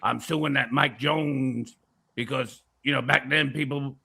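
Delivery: lightly voiced rumble in the back; a hint of a rumbling impression; Alex Jones. Conspiracy talker explaining to Vic, lightly rumbling put-on voice. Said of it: "it's a little rumbling".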